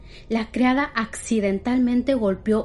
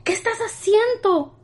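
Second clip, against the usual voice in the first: put-on much higher old woman voice; grim old woman; 11 semitones higher than usual. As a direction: ask it like a shocked old lady. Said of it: "con una expresión sombría y le preguntó".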